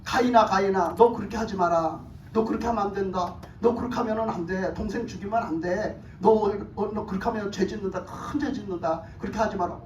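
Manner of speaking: low, softened pleading warning; God's admonishing voice. Acted. Preacher voices God cautioning Cain, low admonishing tone. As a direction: gently warn a wayward child, keeping it low. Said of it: "하나님이 말씀하셨어요".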